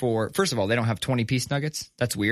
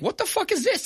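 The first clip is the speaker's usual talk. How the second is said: mock outrage. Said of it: "I'd be like".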